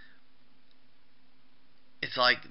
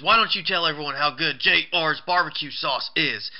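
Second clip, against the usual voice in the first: raised, higher imitation of goading; mock goading; 4 semitones higher, 4 dB louder than usual. Wrestler tightening the headlock on the announcer, mock goading. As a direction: goad him in a put-on wrestler's voice.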